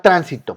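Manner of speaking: "tránsito" stressed on its first syllable, TRÁN-si-to; stress on TRAN. Shown as a demonstration. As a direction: hit TRÁN at the start of "tránsito". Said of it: "Tran es donde lleva la sílaba tónica". ("tránsito" con la sílaba tónica en TRÁN)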